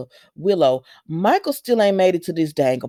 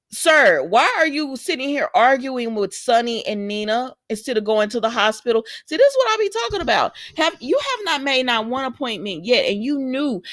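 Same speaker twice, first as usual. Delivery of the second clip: exasperated scolding; 6 semitones higher than usual. Acted. Host scolds Michael for skipping the appointment, exasperated. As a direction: call him out like he should know better.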